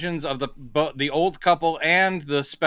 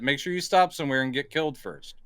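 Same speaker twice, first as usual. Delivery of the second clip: deadpan quote; 5 dB quieter, faster than usual. Retold or imitated. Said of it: "He actually says that".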